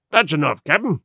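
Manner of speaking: mildly cheery call, lifting on "Captain"; cheery shout. A narrator's reading. Long John answers the captain, mildly cheery shout. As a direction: call it back with a touch of cheer. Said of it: "shouted Long John cheerily".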